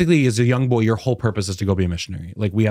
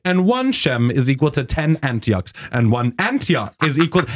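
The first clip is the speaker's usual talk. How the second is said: raised, matter-of-fact recital; mock scripture reading; 4 semitones higher than usual. Missionary reading the scripture he opened, mock recital. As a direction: read it out like an absurd rate table.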